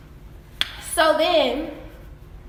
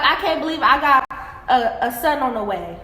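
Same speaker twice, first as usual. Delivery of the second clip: ex's line, said at an easy pace; just repeat what he said, no spin; quoting the ex. Retold or imitated. Woman quoting her ex about his new baby, plain retelling. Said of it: "He was like".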